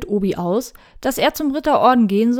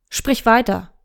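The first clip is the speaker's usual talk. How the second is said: firm. Acted. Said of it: "mit einem Nachdruck".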